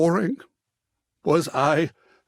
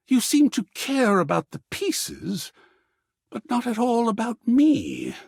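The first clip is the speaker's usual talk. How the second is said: hurt outburst; 7 semitones higher than usual. Acted. Hurt artist accusing player.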